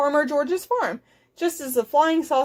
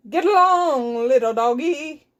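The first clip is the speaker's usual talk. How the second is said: cowboy yell; 3 dB louder than usual. Acted. Zork tries to get the cow moving, yelled. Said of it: "yelled Zork".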